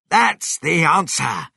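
loud, high exclamation of discovery; excited cry. A narrator's reading. Mister Cranky hears the missing ingredient, crying out. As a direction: cry out as if it's solved. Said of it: "Mister Cranky cried".

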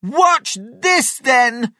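high, loud retort; shouted challenge. A narrator's reading. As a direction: call up a defiant challenge. George shouts back at Grandma.

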